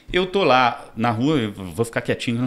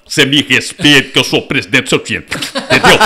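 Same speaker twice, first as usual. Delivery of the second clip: mock proud outburst; 9 dB louder than usual. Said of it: "vem na minha cabeça assim".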